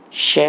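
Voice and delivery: isolated श made at the palate; palatal SH demo. Shown as a demonstration. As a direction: model श alone as a short clear sh syllable. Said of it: "मैं क्या उच्चारण कर रहा". (तालव्य श का अलग उच्चारण)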